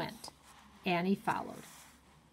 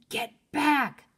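shouted; 5 semitones higher, 5 dB louder than usual. A narrator's reading. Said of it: "Jack shouted at her".

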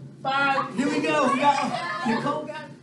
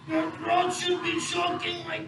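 tag strained instruction; 6 semitones higher than usual. Shown as a demonstration. Acting out choking in the pose.

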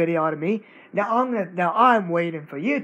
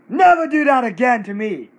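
angry warning; 4 semitones higher, 5 dB louder than usual. Real, not acted. Kid threatening the copycat channel.

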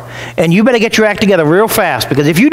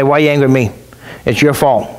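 mild mock irritation, low and curt; a hint of snapping back at someone; impatient retort; 5 semitones lower than usual. Someone losing patience with an angry person, mildly irritated. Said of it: "then you're not so patient with them".

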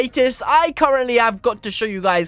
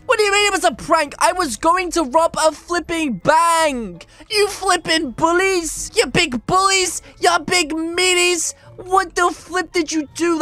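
playful outrage; 4 semitones higher than usual. Real, not acted. Outraged at being pranked.

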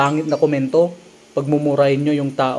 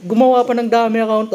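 much higher and louder, laughing disbelief; incredulous exclamation; 8 semitones higher, 4 dB louder than usual. Real, not acted. Vlogger reacting to the fake account comment, incredulous and amused. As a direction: repeat it squealing in amused shock.

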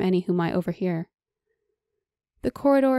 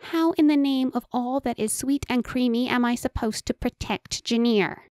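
indignant; 5 semitones higher than usual. Acted. Enchanter outraged at orders.

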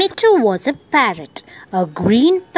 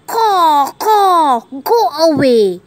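high cawing crow, warning off; raised crow voice for a children's story; loud crow; 5 semitones higher, 4 dB louder than usual. A narrator's reading. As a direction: squawk it like a territorial crow. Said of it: "He had a very loud voice".

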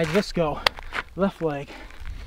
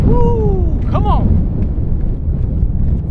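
high loud woo then come on; excited whoop; 12 semitones higher, 4 dB louder, much slower than usual. Real, not acted. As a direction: whoop and cheer yourself on. Whoop in the wind.

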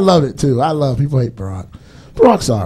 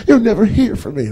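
mock girlfriend voice; 7 semitones higher than usual. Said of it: "girlfriend voiced".

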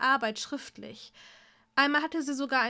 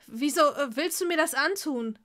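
louder, panicky question; panicked; 2 semitones higher, 6 dB louder than usual. Acted. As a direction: cry out in panic. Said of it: "fragte er panisch".

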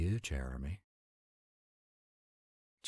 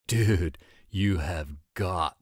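excited call; 6 dB louder, slower than usual. Acted. Excited call to friend about hoodie.

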